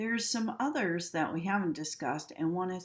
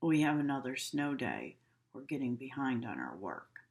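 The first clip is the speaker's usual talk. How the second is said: gloomy; 3 semitones lower than usual. Shown as a demonstration. Teacher contrasting happy with a gloomy mood, lower. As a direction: sigh about falling behind.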